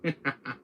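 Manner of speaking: short villain chuckle; put-on villain laugh, falling away; Wesker. Shown as a demonstration. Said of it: "I can do his Richard Roth laugh".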